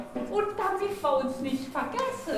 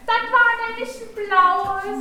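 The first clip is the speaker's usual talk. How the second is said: delighted sing-song; 6 semitones higher, 5 dB louder than usual. Acted.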